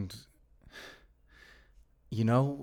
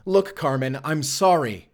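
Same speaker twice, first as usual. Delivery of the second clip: raised apology; 4 semitones higher, 5 dB louder than usual. Acted. Apologizing under attack.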